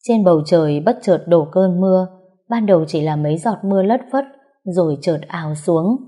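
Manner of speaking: usual speaking voice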